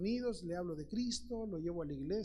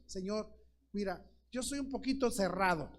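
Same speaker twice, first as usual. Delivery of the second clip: pleading model prayer; 2 semitones higher than usual. Retold or imitated. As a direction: pray it like a humble man begging for guidance. Model prayer voiced to God.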